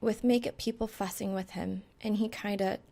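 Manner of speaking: flat recital; monotone. Acted. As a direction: drone through it evenly. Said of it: "spewing a monotone monologue".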